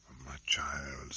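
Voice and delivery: soft slow whisper; whispered comfort. Acted. Doctor calms his frightened daughter, whispering. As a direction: hush her gently, breathless.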